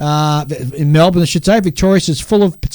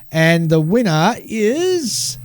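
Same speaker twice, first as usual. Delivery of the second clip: hyped giveaway announcement; 5 semitones higher, much slower than usual. Acted.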